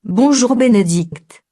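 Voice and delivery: slow synthetic voice greeting; half robot voice, slow and even. Acted. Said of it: "les voix synthétiques".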